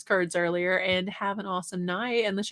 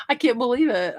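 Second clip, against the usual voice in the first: laughing whisper; 4 semitones higher than usual. Real, not acted. Laughing at missed dollar bag.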